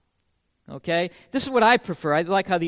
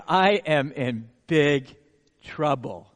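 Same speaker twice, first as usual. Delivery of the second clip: inner dread; 6 semitones lower, much slower than usual. Retold or imitated. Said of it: "I think".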